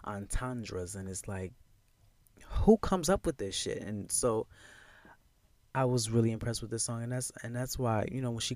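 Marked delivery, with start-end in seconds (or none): 2.4-3.8 high, whispered disbelief; amazed whisper. Real, not acted. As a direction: marvel at it under your breath.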